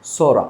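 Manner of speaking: সোরা said as "sora" with no p sound; silent p. Shown as a demonstration. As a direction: start সোরা straight on the s. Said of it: "পি এস O R A".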